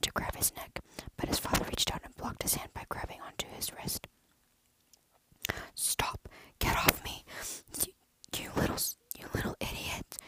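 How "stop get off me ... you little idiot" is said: whispered yell, a touch louder; mild shout at the boy. Acted. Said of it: "he yelled".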